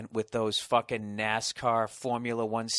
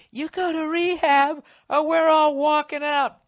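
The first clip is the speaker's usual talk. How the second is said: family's ultimatum; 14 semitones higher, 7 dB louder, slower than usual. Pretend.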